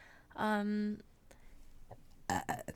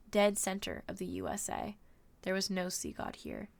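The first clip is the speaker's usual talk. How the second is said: story narration. A narrator's reading. Streamer reading a novel to viewers, measured narration. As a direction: read the adventure aloud with steady pacing.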